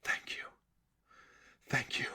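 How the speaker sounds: whispered thank you; silent thanks. Acted. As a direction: breathe it out unseen. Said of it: "silently said".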